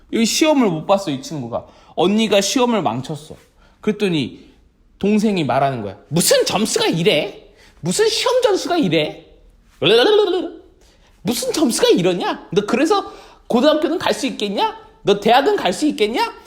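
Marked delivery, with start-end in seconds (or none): 6.1-16.3 taunting questions with swooping pitch; hammed-up sibling mockery; mocking teasing. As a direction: tease like a scornful younger sibling. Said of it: "이렇게 놀리는 거예요".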